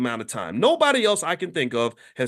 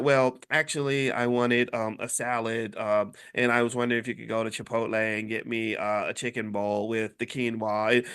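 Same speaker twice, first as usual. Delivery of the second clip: mock picky eater; 6 semitones lower, 4 dB quieter than usual. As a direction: put on a fussy picky customer voice. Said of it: "He's not gonna be like".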